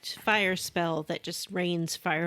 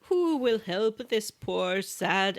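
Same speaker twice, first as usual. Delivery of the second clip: lightly voiced Irish-sounding sad prince; leprechaun. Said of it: "Irish-sounding guy".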